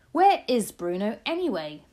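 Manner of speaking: loud, impatient father; irritated demand. A narrator's reading. Irritated father demands his son.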